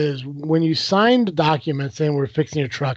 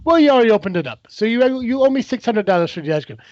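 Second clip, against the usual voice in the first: higher, quicker mock arguing customer; insistent retort; 4 semitones higher than usual. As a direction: fire back as the customer demanding payment. Retold customer arguing back over the money.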